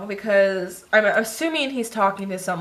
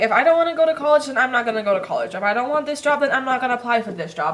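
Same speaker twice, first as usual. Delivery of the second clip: fired-up defiance; 3 semitones higher, faster than usual. Retold or imitated. Defiant rant about own choices.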